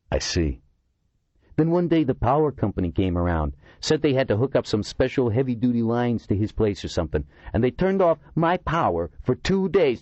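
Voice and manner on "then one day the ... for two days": higher, lightly voiced indignant eccentric; a complaining oddball telling his grievance; aggrieved Kurtzima. A narrator's reading.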